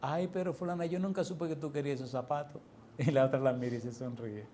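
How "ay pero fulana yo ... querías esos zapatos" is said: soft, mildly tearful mock apology; imitated tearfulness. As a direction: plead softly as if through tears. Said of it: "le dice la otra con lágrimas".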